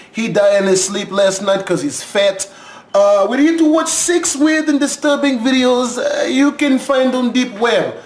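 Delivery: lightly put-on Russian accent, barely shifted; bad Russian accent. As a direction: play a Russian stand-in host with a weak, half-hearted Russian accent. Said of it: "that's my Russian accent".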